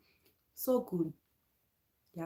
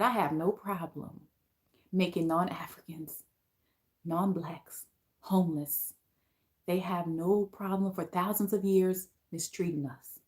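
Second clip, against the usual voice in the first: softer, weighty, each phrase set apart with pauses; read how he meant it; 3 semitones lower, 5 dB quieter than usual. Retold or imitated. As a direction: give his words the weight he intended, softly. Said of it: "how he meant it".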